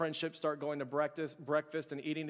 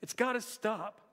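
higher, urgent retelling of an overwhelmed friend; overwhelmed plea; 4 semitones higher, 3 dB louder than usual. Retold or imitated. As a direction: plead like it's all too much to bear. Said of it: "he simply says".

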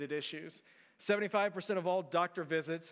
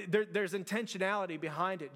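usual speaking voice

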